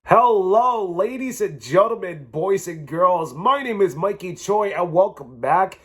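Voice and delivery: slow, showman welcome; grand entrance announcement. Pretend. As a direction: announce yourself like a host. Show intro to viewers.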